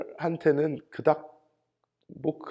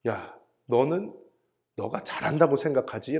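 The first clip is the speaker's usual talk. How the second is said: God's rebuke; 2 semitones lower, 4 dB quieter than usual. Retold or imitated. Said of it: "이런 말씀을 하세요. 하나님께서".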